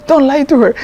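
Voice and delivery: angry order. Retold or imitated. Jail head kicking the prisoner.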